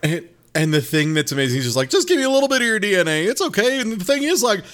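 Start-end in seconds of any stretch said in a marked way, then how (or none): 1.9-4.6 used car salesman. Retold or imitated. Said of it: "it's like a used car salesman".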